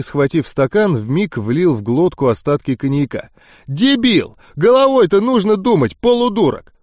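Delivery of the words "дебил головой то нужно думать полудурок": high, exasperated name-calling; angry scolding. A narrator's reading. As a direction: chew out a fool in a raised pitch. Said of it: "Он озлобленно махнул рукой". (злая ругань высоким голосом)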